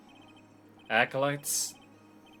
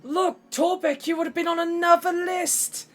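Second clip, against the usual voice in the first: Grieco impression; 7 dB louder than usual. Retelling a Legends of Adventurous skit, high loud character voice. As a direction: boom it out like a cartoon sidekick. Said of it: "And Grieco goes".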